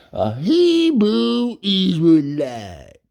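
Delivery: high, slow, loud drawn-out call; yelled out. Retold or imitated. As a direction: stretch it long and loud like calling across the yard. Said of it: "He said".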